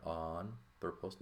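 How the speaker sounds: anthropos with no h at the start; smooth breathing. Shown as a demonstration. Teacher showing smooth breathing on the word, anthropos begun without an h. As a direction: open anthropos straight on the vowel. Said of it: "put our smooth breathing there".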